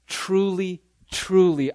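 "Truly, truly" with each word set apart and weighted; emphatic repetition. Acted. Jesus underscores a point to listeners, emphatic on "Truly, truly". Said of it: "whenever he's going to underscore or highlight something".

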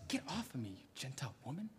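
high, irritated dismissive voice; annoyed disciples. Acted. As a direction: shoo her away in exasperation. Disciples brushing the woman off.

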